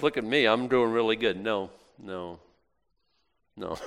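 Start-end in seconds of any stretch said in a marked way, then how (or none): 0.0-1.4 mock swagger. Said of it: "Thumbs under the suspenders".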